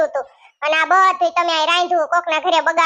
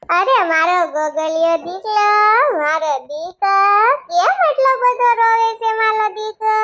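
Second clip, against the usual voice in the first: put-on cooing to a baby; 3 semitones higher than usual. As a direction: soothe the wailing baby, half singing. Mother soothing crying baby.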